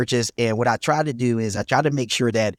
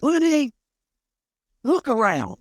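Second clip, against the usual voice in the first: rich mentor's voice. Retold or imitated. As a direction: play the big investor showing off the venue. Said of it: "And he talks like this".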